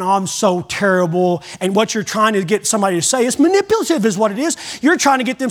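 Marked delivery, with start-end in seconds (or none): 0.0-1.4 mock self-pity. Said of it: "don't play that game".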